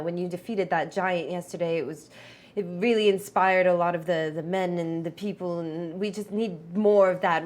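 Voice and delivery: lightly voiced weary dwarf leader; overwhelmed young leader. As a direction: plead with a touch of being overwhelmed. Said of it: "he does seem a little bit more overwhelmed".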